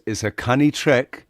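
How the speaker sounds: lightly voiced Geordie accent; imitating Geordie. Repeating a friend's Geordie phrase in a Geordie accent. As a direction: say canny trek the Geordie way. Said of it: "what he just said is".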